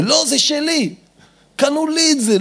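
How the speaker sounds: high-pitched possessive whine; angry child. Acted. Child refusing little brother the toy car, high angry protest. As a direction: protest like a kid guarding a toy. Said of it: "הילד כועס".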